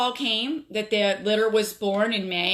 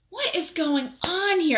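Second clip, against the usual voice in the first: suspicious question; 8 semitones higher than usual. Retold or imitated. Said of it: "I'm like".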